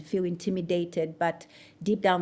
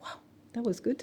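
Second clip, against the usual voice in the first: higher, softer echo of praise; small, pitched-up wondering voice; amazed at herself; 5 semitones higher, 6 dB quieter than usual. Retold or imitated. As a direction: repeat it in quiet disbelief. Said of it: "I'm like".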